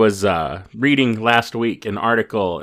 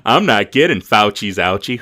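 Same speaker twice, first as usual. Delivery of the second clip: hammed-up dinner-table announcement, raised voice; vaccine-refusing relative; 4 semitones higher, 4 dB louder than usual. Aunt or uncle at the dinner table, hammed-up announcing. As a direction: mimic an aunt or uncle piping up. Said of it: "Your aunt and uncle who at the dinner table".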